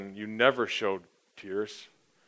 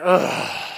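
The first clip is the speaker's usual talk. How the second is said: mock groan; 6 semitones higher, 5 dB louder than usual. Groaning at the hockey loss.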